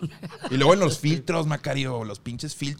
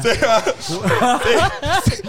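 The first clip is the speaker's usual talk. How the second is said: high, loud, breaking with laughter; can barely get the words out for laughing; laughing fit; 9 semitones higher, 8 dB louder than usual. Real, not acted. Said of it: "Perdón".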